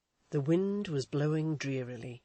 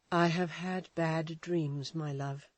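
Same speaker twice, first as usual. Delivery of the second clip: shaken woman; slower than usual. Acted. Edith shaken, strange dread.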